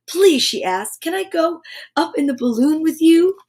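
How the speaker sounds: put-on children's story read aloud; storybook narration for kids.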